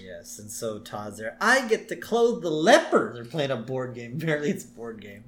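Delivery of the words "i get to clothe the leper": Todd Flanders voice. Retold or imitated. Todd voiced in retold scene.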